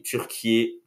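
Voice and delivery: "Turquie" ending in a ki-yé sound; new-name pronunciation. Shown as a demonstration. Restating for viewers who missed it, "Turquie" pronounced ki-yé at the end. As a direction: add a final é to "Turquie". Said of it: "si vous n'avez pas compris".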